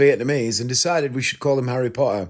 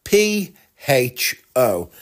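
"P H O" slowly, one letter at a time; "P H O" as three separate slow letters; spelled out; much slower than usual. Shown as a demonstration. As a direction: spell out "P H O" with gaps between letters. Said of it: "it is spelt".

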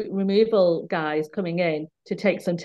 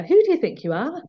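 imitating an angry director; 7 semitones higher than usual. Quoting the male director snapping at a colleague, mock anger. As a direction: hammer the question at her like an angry boss. Retelling the director's rude challenge.

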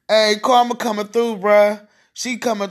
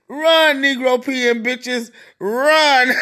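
gleeful call; 3 semitones higher, much slower than usual. Real, not acted. Calling out gleefully to targets.

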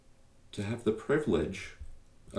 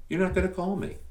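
much higher pitch on "You're not gonna call me" with falling end on "not"; high teasing repeat; 9 semitones higher, faster than usual. Shown as a demonstration. Podcast host teases listeners who won't call, high mock voice. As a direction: tease them in a high, knowing voice.

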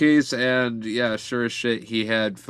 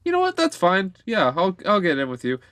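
high mock voice; 8 semitones higher than usual. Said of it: "He's like".

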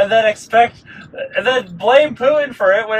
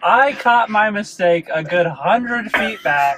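defensive whine; 3 semitones higher, slower than usual. Real, not acted. Defending his driving mistake.

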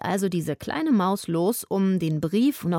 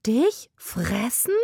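exclaimed; 3 semitones higher, much slower than usual. Acted. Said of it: "rief sie".

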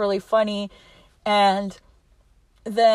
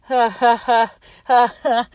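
spaced-out fake ha-ha-ha; half-hearted imitation of laughing it off; mock laugh; 3 dB louder than usual. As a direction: laugh without really laughing. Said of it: "laugh about it".

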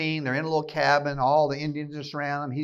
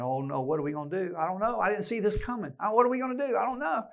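mock panicky hand-wringing; 5 semitones higher, faster than usual. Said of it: "wringing his hands saying".

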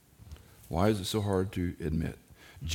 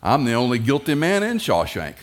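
Red's line; 4 semitones higher, 7 dB louder than usual. Retold or imitated. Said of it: "and Red says".

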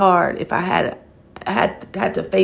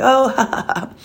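forced laugh; 5 semitones higher than usual. Retold or imitated. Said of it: "at first it was like".

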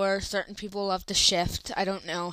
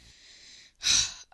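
gasping for air. Real, not acted. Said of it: "I'm running out of breath".

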